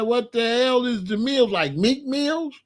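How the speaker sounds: high, puzzled questioning; confused. Retold or imitated. Dad asking daughter what she means, confused. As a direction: retell a baffled dad guessing at a word. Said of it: "Like, I was confused".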